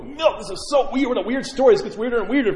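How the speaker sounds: a priest imitating a puzzled listener in high-pitched disbelief; mock disbelief. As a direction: play a baffled visitor. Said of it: "You go".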